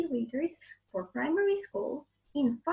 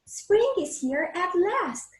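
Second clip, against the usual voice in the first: happy giant; 5 semitones higher, 4 dB louder than usual. Acted. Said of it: "says the giant".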